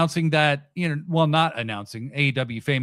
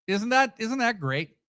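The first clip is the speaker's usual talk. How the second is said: sarcastic; 6 semitones higher than usual. Real, not acted. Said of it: "everything I say sounds sarcastic".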